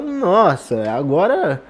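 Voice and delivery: mock "phew, it's all sorted" relief; acted relief. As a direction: play someone hugely relieved, lightly hammed up. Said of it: "ele fica muito aliviado e fala".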